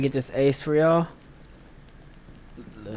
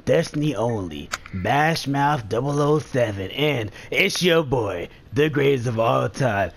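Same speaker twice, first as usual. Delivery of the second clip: movie voice. Pretend. Gamer introducing the squad's Rainbow Six montage, movie voice. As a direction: announce the lineup like a movie voiceover. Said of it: "movie voice".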